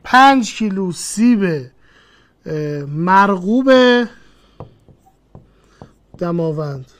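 slow, spaced-out example phrase; teacher slowly saying پنج کیلو سیب. Shown as a demonstration. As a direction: read the example slowly for notes.

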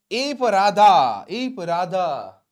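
very slow, drawn-out model phrase; slow dictation. Shown as a demonstration. Teacher building an English sentence for learners, slow dictation. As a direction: stretch each word for learners to follow.

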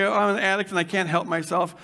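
mope it out low and defeated, a lightly voiced self-pitying addict; a hint of a beaten-down inner voice; whiny old narrative voice. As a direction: sigh out the hopeless excuses. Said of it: "where we say".

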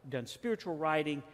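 half-acted offended protest; a hint of wounded pride in the voice; mildly furious. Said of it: "that made him furious".

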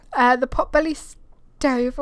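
hiccuping mid-sentence; hiccups. Real, not acted. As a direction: speak through hiccups. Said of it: "I've got the hiccups now".

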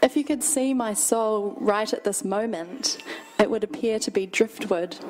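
measured, deliberate poetry reading; poem reading. Acted. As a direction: read it as your own poem, unhurried. Reads own poem aloud.

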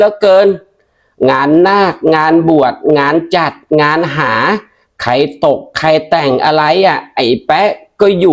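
a village aunt talking the man up. Acted.

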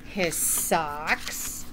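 gentle storytime narration; reading to children. Acted. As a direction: read it like storytime for little ones. Reading a picture book aloud.

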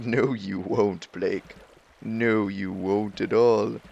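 slow, ominous mock warning; creepy voice. Game mocking his hope, a lightly creepy slow voice. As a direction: drawl it out like a spooky omen. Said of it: "So creepy".

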